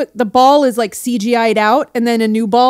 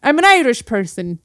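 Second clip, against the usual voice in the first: amateur, put-on Irish accent. Shown as a demonstration. Guest repeats the praised line, attempted Irish accent. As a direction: play at being Irish. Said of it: "That was good".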